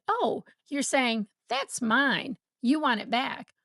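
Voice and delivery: calm, a bit slow, gently reflecting; a gentle, unhurried echo of the child; calmly. Shown as a demonstration. Parent calmly reflecting the toddler's words. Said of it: "you might say calmly".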